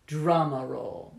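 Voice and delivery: long trilled R, slowly drawn out; strong rolled R. Shown as a demonstration. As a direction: roll the R hard and long. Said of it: "Drum roll".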